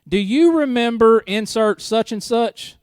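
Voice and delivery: a lightly voiced mother-in-law, drawn out; mock mother-in-law. Mother-in-law calling her daughter, slow and high. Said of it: "Her mom will go".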